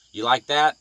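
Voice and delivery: real angry taunt; loud taunt. Real, not acted. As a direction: throw it at her like a dare. Taunting the attorney.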